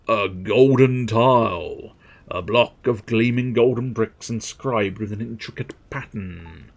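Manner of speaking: drawn-out item names, then grand description; hammed-up product presenter; showy catalogue read. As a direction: announce each item with relish. Reads item descriptions aloud.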